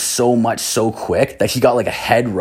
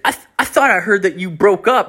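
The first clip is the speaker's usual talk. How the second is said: higher put-on dude voice; stoner guy voice; 9 semitones higher than usual. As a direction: play the dopey buddy, pitched up. Same guy voiced in story.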